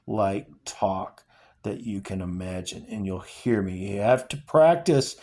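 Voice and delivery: steady, earnest reading of a novel; dramatic novel reading; story reading. Acted. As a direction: read the father and son scene aloud with feeling. Reading The Road aloud.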